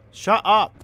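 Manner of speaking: loud, high snap; exasperated shout. Real, not acted. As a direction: shout it to silence the noise. Yells at game noise.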